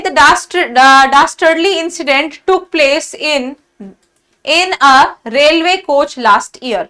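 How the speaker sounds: reads the test sentence slowly, word by word. Shown as a demonstration. Teacher reading the exam sentence to students, slow and deliberate. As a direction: dictate it slowly like a question paper.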